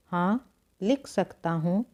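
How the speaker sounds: "हाँ", a brief stop, then "लिख सकता हूँ"; short pause after हाँ. Shown as a demonstration. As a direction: pause a little after हाँ before reading on. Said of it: "थोड़ा रुकने का".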